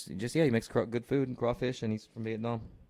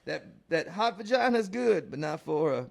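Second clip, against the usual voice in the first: high mock voice; 4 semitones higher than usual. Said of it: "If you're gonna gay in Texas".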